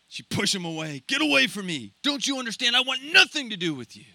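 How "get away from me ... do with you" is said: cold and hard. Acted. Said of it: "She was so cold, so hard".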